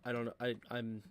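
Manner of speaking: low, subdued frustration; mumbled low, at a loss and upset; quietly mad. Real, not acted. Streamer baffled by technology failing, quietly mad. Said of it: "I'm so mad".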